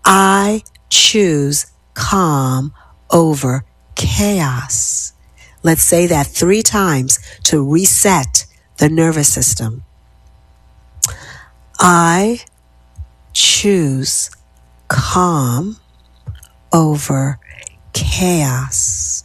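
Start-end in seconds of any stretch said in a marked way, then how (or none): 0.0-5.1 slow words, chaos whispered; slow affirmation, whispered end. Shown as a demonstration. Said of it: "Miss Heaney says". 11.8-19.2 word by word, fading to a whisper; dropping to a whisper. Shown as a demonstration. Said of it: "Your voice drops a decibel each time".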